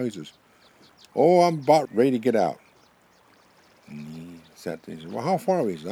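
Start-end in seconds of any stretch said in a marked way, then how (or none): 1.2-2.6 loud, high-pitched answer; calling back. Acted. Buffalo answers the porcupine in his stomach, calling back. 5.1-5.7 high, loud storybook call. Acted. Swallowed porcupine asks buffalo how far, calling out.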